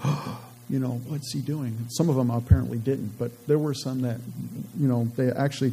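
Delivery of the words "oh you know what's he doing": hushed, breathy mock shock as princes watch the scroll burn; a hint of horrified princes, gasping softly. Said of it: "they're probably, like, gasping".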